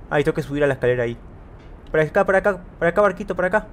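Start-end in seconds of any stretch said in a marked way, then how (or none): 1.9-3.7 coaxing call. Real, not acted. Coaxing the boat closer.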